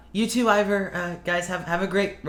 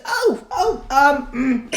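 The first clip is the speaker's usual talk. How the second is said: Amir; 9 semitones higher, 5 dB louder, much slower than usual. Acted. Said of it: "He's like".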